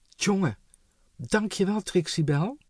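breathless grateful thanks; relieved thanks. Acted. Fallen king thanking Trixie, relieved and loud.

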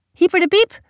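loud, high birthday cheer; full-hearted bellow. Acted. Hyperactive dad cheering at the birthday, bellowing with abandon. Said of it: "brult hij vol overgave".

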